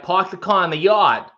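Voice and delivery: Boston accent with broad open ah; lightly put-on Boston accent. Shown as a demonstration. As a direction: drop the r's in Boston style. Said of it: "More ah in the Boston accent".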